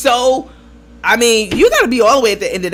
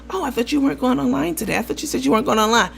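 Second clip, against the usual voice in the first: quick, light imitation of an innocent remark; mild, not going in; 3 semitones higher, 4 dB quieter, faster than usual. Lady making a simple comment, imitated as mild. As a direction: say it fast and harmlessly. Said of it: "didn't even go in like that".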